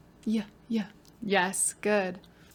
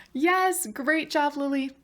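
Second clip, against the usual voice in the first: excited praise; 5 semitones higher, slower than usual. Real, not acted. Praising a student.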